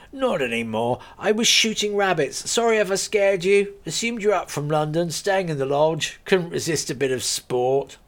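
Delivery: a friendly landowner laughing off his joke; lightly voiced farmer. Gunman farmer speaks.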